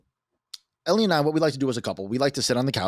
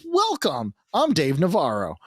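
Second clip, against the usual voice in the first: a musician; 4 semitones higher, slower than usual. Retold or imitated. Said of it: "and I went".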